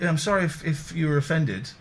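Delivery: mock sorry-if-you-were-offended; fake apology. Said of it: "you did one of those".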